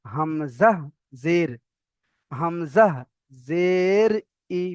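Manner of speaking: measured spelling with pauses between parts; Qaida spelling recitation. Shown as a demonstration. Teacher models reading hamza with zer, measured recitation. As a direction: spell out hamza, zer, then a short syllable. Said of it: "তাহলে এখানে আমরা পড়বো".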